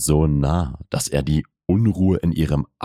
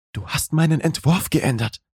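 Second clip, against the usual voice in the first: controlled, much higher female character voice; beherrschte Frauenstimme; 11 semitones higher than usual. A narrator's reading. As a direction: raise the pitch for her, keep the reproach contained. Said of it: "Ihre Stimme klang ruhiger". (beherrschte, deutlich höhere Frauenstimme)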